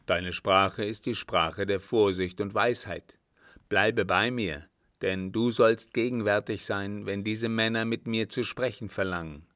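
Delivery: hint of a commanding elder; lightly voiced sheik. Sheik praising Sadi and bidding him stay, firm.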